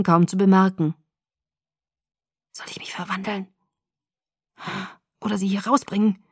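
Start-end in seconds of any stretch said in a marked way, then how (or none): 2.5-6.2 very soft, whispered hiss; hissed to himself. A narrator's reading. Jacob debating with himself whether to transform or flee, hissed. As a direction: hiss it under your breath. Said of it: "zischte er vor sich hin".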